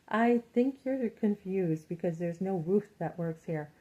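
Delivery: slow, measured, prim correction; prim company rep. Retold or imitated. Company woman telling her she has the wrong person. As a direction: calmly set the customer straight. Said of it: "she's like".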